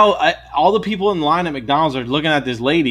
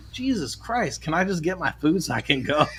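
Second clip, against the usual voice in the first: exasperated aside; 3 semitones higher, 6 dB quieter than usual. Retold or imitated. Teller's exasperated aside during quarrel.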